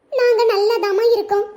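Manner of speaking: slow, reluctant reassurance; troubled, off-sounding. Acted. Daughter telling mother on the phone she is fine, troubled. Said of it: "சத்தம் ஒரு மாதிரி இருந்த மாதிரி இருக்கு".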